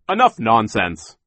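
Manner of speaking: slow, loud, firm; stern rebuke. A narrator's reading. Mister Poe cuts Count Olaf off, stern and loud. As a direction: shut the nonsense down.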